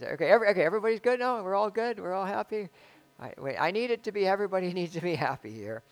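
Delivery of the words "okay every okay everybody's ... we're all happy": lightly voiced, higher anxious check-in; mock nervous reassurance; a touch of fussing host; anxious fixer. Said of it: "Val can testify".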